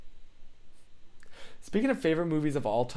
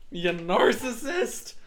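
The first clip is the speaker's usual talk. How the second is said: slow, higher teasing jab; mock accusation; 7 semitones higher, slower than usual. Streamer teasing a chat member, slow mock accusation. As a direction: drag it out in mock outrage.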